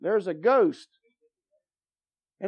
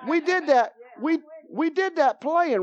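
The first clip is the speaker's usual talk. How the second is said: laughing; 7 semitones higher, 3 dB louder than usual. Real, not acted.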